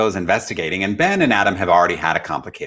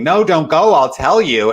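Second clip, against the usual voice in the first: high, loud pleading call after someone walking away; desperate plea; 7 semitones higher, 6 dB louder than usual. Retold or imitated. Adam running after Ben, begging him not to leave, loud high plea. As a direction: beg him to come back, loud and high.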